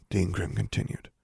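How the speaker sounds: usual speaking voice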